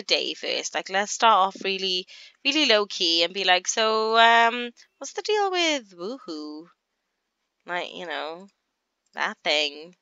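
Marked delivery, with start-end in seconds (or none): 3.7-6.7 slow, drawn-out put-on curious teen; lightly voiced teen daughter; Sim daughter voice. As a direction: ask it slowly, faking innocence. Player voicing Sim asking mum.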